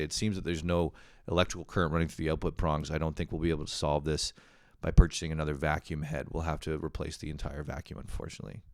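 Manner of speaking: low, quick technical monotone; mock-expert report. Boyfriend reporting vacuum diagnosis to girlfriend, mock-expert. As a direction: deliver it like a solemn technician.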